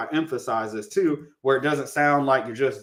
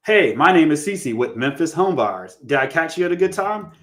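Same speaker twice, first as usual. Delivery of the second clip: upbeat, a bit higher caller greeting; friendly cold call opener; 3 semitones higher, 4 dB louder than usual. Shown as a demonstration. Investor on a cold call, greeting a homeowner, in a friendly upbeat tone. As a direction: greet them like a real person on the phone.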